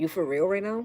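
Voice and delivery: mock-disgusted voice. Recalling the voice heard on waking from dreams, the speaker's father: imitating his disgusted tone. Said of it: "the disgust in his voice".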